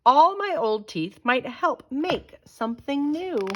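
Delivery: excited. Acted. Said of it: "he cried".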